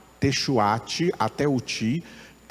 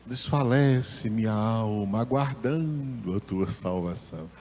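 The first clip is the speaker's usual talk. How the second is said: drained, sighing lament trailing off softer; suffering; 3 dB quieter than usual. Shown as a demonstration. Teacher shows the Portuguese verse's impression of suffering, sufferingly. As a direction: sound weary with suffering, fading away. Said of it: "dá a impressão de sofrimento".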